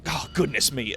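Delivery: flustered, halting apology; awed, tongue-tied hesitations; stumbling over words. Acted. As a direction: fumble through it, breaking off and restarting. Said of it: "almost, like, stumbling over his words a little bit".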